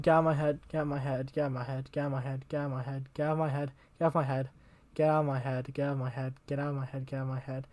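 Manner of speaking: a hint of obsessive chanting read aloud; poem recitation. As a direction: chant the lines like a looping thought.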